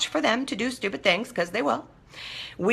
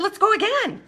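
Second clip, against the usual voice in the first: much higher, bouncing eagerness; eager excitement; 10 semitones higher than usual. Retold or imitated. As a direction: urge everyone to get going, high and keen. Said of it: "I said".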